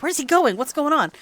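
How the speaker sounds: crowd murmuring. Retold or imitated. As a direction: wonder aloud like a confused bystander. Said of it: "they'd be like".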